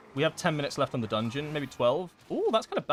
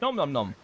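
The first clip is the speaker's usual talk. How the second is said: nom nom chomping; 2 semitones higher than usual. Retold or imitated. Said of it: "and the tank goes".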